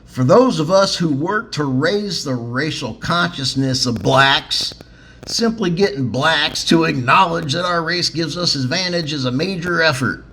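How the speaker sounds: reading the quote in a light Southern accent. Shown as a demonstration. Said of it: "I'll even try to do a southern accent".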